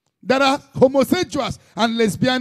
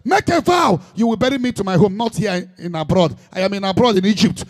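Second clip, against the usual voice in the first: pleading dying Jacob. Acted. Jacob's dying plea, acted.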